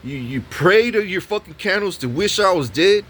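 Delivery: imitating an escalating rant at the tenant; going hard on her. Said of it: "And I'm going hard on her".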